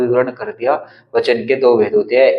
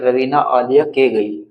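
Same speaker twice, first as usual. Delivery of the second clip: slow puzzled misreading; slower than usual. Shown as a demonstration. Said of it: "अगर हम इसको ऐसे पढ़ेंगे".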